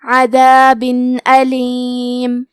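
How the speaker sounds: عذاب with a clear noon before علیم, no nasal hum; tanween with clear noon. Shown as a demonstration. Teacher shows students a clear tanween, slow and deliberate. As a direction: say عذاب علیم slowly, each letter distinct. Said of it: "بغیر غنہ سے یہ حکم کو ادا کریں گے".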